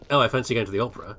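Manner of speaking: lightly hammed-up posh Brit, fast; a mock toff airily fancying the opera; a hint of upper-class affectation. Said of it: "the posh voice".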